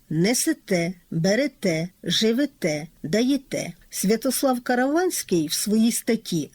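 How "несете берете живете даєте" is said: each word ends on a stressed те; stress on last syllable. Shown as a demonstration. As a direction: stress the final те in "Несете, берете, живете, даєте". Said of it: "наголос припадає на останній склад".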